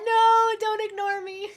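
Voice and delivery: high, slow, whiny plea; whiny brat. Retold or imitated. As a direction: whine it like a needy brat. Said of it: "as a brat".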